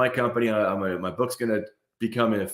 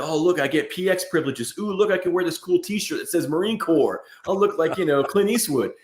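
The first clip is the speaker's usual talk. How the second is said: higher-pitched imitation of a gushing recruit; mock eager recruit; 5 semitones higher than usual. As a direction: play a starry-eyed recruit, lightly mocking. Mocking an eager recruit's thoughts.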